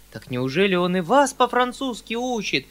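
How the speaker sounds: изумлённый высокий вскрик; спроси выше, с долей испуга; почти испуг. A narrator's reading. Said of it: "вскричал я почти в испуге". (встревоженный возглас)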